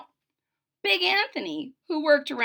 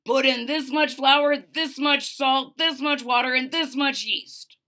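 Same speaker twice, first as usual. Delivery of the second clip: louder, lightly voiced baker; bossy baker; 3 semitones higher, 6 dB louder than usual. Baker instructing Big Anthony, louder. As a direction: instruct firmly.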